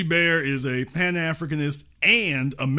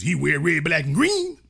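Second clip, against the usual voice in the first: mock insistence; 4 dB louder than usual. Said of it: "What you mean he ain't".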